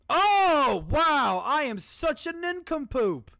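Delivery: high, loud frantic exclamations; manic excitement. Real, not acted. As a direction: yell it out in giddy frenzy. Frantic self-mockery after failing.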